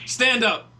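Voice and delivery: loud, high shouted challenge; shouting. Retold or imitated. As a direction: bark it as a challenge. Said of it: "and he goes".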